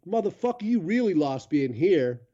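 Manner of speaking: rough local guy. Retold or imitated. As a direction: play the gruff helper. Voicing gas station locals.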